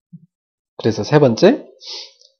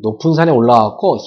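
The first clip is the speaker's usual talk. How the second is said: usual speaking voice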